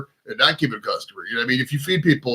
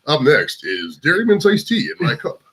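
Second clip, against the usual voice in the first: commercial voice; slower than usual. Pretend. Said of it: "she wants me to do a commercial voice".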